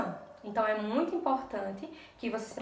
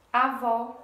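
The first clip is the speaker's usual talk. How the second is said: avó with a louder final VÓ; stress on last syllable; 5 dB louder than usual. Shown as a demonstration. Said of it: "a última sílaba é a mais forte". (avó com a última sílaba forte)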